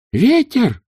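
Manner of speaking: high, loud yell. A narrator's reading. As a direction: bellow it over the gale. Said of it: "проорал Два Цветок".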